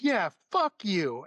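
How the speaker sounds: drawn-out mock-angry retort; retold angry insult. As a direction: stretch it out as the hostile driver. Retold driver repeats his insult.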